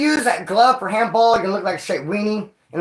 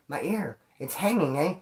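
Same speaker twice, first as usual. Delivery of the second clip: quiet; 6 dB quieter than usual. Retold or imitated. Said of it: "this dude saying".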